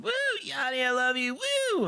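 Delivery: high squealing fan calls; screaming fan. Retold or imitated. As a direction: shriek like an overexcited concert fan. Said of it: "She kept going".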